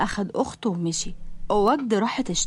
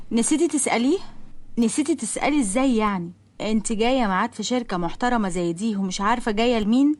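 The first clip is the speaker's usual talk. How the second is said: condescending scolding. Acted. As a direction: belittle the girl who forgot the name. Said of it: "بصت لها من فوق لتحت".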